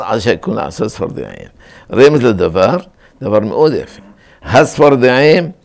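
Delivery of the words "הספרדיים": הספרדיים with a light single s, "ha-sfar"; הספרדיים slowly, with ungeminated s; no dagesh. Shown as a demonstration. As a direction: keep the consonant in הספרדיים undoubled. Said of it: "אין דגש בשדה".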